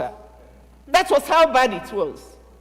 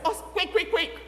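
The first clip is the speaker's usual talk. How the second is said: urgent call; 5 semitones higher, 4 dB quieter than usual. Acted. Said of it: "she called the sister Miriam".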